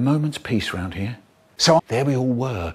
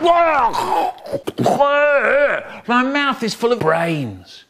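zombie voice; 9 semitones higher, slower than usual. Acted. Zombie-like creature line.

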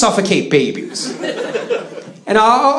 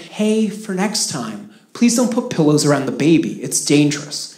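calm; 4 semitones lower, 4 dB quieter than usual. Retold or imitated. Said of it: "So I just said very calmly".

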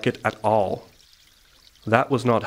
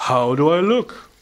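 higher, rising, eager; excited question; 5 semitones higher, 4 dB louder than usual. A narrator's reading. Hedgehog shows off his petals, excited. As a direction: ask excitedly, lifting right up at the end. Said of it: "he asked excitedly".

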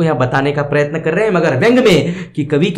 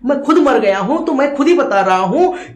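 higher, pleading insistence; straining ghost; 5 semitones higher than usual. Acted. Ghost insisting to Yamraj, straining. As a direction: push hard to be believed. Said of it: "बहुत जोर डालकर वहां प्रेत कहता है".

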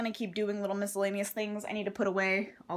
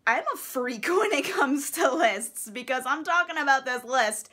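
excited laughing; 3 semitones higher, 3 dB louder than usual. Real, not acted. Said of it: "I need to calm down".

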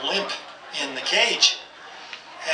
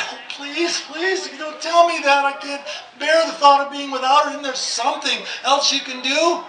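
higher, begging, mock desperate; pleading again; 6 semitones higher than usual. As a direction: plead with the vet once more. Owner begs vet again.

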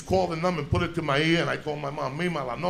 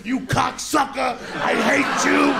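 retold angry cry, pitched higher; tearful outburst; 4 semitones higher than usual. Boy to the nun who hit him, tearful outburst. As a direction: act out an upset, high-pitched outburst. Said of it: "And I'm just crying".

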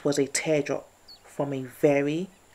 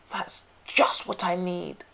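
groaned; 4 semitones higher than usual. A narrator's reading. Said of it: "he groaned".

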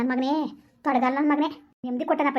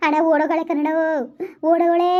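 blurting the news out louder; loud outburst; 2 semitones higher than usual. Acted. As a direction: blurt it too loud for the neighbours. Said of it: "ಏಯ್, ಮೆತ್ತಗ್ ಮಾತಾಡಿ". (ಜೋರಾಗಿ ಕೂಗಿ ಹೇಳುವುದು)

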